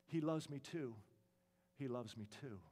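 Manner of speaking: low, hushed, fading repetition; dying last words. Acted. Pepita on her deathbed, last words, fading softly. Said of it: "Pepita is actually dying on her deathbed".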